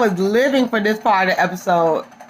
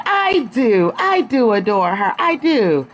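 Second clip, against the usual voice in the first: insisting; 3 semitones higher, slower than usual. Retold or imitated. Sutton insisting she adores her.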